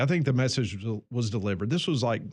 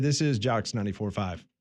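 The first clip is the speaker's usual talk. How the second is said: ordinary talk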